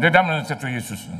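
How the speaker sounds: gabbled fast, words swallowed; tossing off the name in a hurry; rushed mumble. Retold or imitated. Mocking a preacher who rushes the prayer's end. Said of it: "Tapi kalau dia ngomong".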